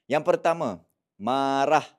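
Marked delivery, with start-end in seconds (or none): 1.2-1.9 loud, drawn-out word; emotional emphasis. Shown as a demonstration. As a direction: hit the word loudly, with feeling. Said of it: "biasanya dia datang dengan emosi".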